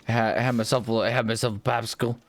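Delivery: fast, peppy sugar-rush chatter. Real, not acted. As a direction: bounce through it quickly. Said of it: "a sugar rush".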